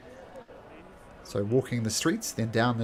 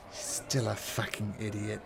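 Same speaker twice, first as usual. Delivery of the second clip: dark whisper behind you; 6 dB quieter than usual. Acted. GM voices shadowy woman.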